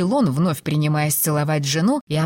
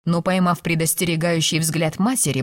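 plain reading voice

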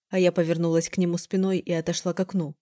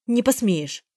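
scoffing; 4 semitones higher, slower than usual. Acted. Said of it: "фыркнула я".

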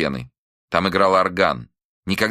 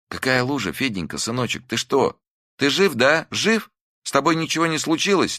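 relieved mother; 9 semitones higher than usual. A narrator's reading.

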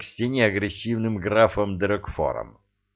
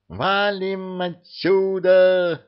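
much higher, slow, drawn-out panicked yell; a cat yelling to run for it; bellowing yell; 10 semitones higher, much slower than usual. A narrator's reading. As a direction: holler to flee right now. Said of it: "заорал он ему".

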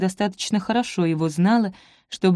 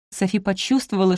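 plain reading voice

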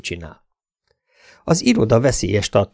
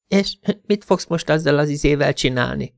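lightly voiced woman, pitched higher; a higher voice for a flirting lover; flirty woman's voice; 5 semitones higher than usual. A narrator's reading. Cindy asks her lover in bed, flirty woman's voice.

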